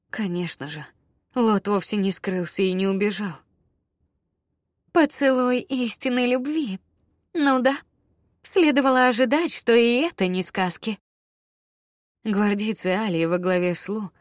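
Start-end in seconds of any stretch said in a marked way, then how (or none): 4.9-11.0 higher, louder sneering taunt; mocking sneer. A narrator's reading. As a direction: sneer at the kiss. Villain's mocking remark.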